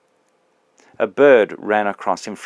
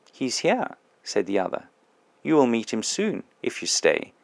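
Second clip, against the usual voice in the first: softer, calm reassurance; quietly soothing the angry ghost; the bright spirit answering the ghost, soft and calm; gentle spirit; 2 semitones higher, 5 dB quieter than usual. Acted.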